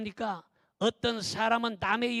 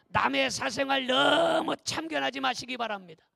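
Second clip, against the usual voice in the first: forceful preaching; 3 semitones higher, 6 dB louder than usual. Real, not acted.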